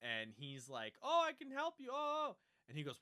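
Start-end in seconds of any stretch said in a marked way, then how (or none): 1.0-2.4 very high, loud put-on voice; mock eagerness. Offering help to her at the driver's area, high-pitched mock eagerness. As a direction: pipe up as a hammed-up would-be helper.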